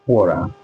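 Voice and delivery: WATER with the T tapped like an R; American flap T. Shown as a demonstration. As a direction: soften the T of WATER into an R-like tap. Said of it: "It's different from British English".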